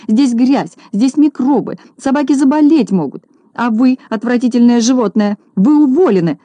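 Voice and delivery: high, loud panicked shouting; shrill shouting. Acted. Lady firing Neznaika, high loud shout. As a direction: shriek about germs, then fire him. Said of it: "продолжала кричать Минога".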